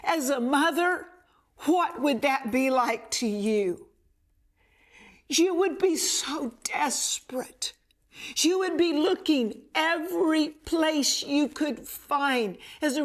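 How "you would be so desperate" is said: whisper. Real, not acted. Imagining a desperate mother.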